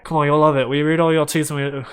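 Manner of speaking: hurried, run-together character line; very fast talker. Acted. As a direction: rattle it off as Liam's quick speech. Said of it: "he is so fucking fast".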